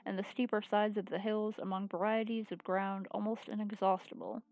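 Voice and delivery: even, measured read-aloud narration; story narration. Acted. Reads visual novel aloud.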